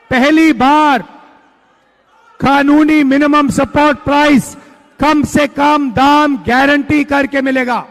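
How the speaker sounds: rousing rally shout. Real, not acted. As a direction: proclaim it to the crowd, building. Rally speech, promise to farmers.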